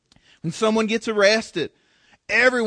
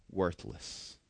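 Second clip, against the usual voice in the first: hushed whisper; 18 dB quieter than usual. Acted. Pastor reading James to congregation, whispered close. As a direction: drop to a breathy whisper on the last word.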